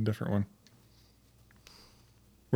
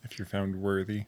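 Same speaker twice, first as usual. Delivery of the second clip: mysterious whisper; 7 dB quieter than usual. Pretend. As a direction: breathe it like a secret. Mystical aside about worthiness.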